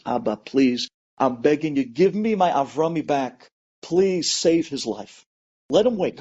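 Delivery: a touch of a father's tearful begging, slow; understated weeping prayer at the wall; tearful plea. Acted. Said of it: "he starts to cry like a father".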